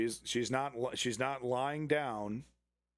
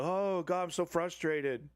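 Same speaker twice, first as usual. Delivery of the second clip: mock frustration; 4 semitones higher than usual. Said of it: "He's trying to, like".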